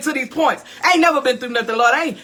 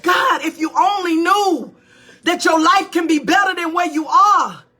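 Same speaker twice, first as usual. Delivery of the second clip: frustrated cry; 3 semitones higher than usual. Retold or imitated. Retold frustrated cry to God.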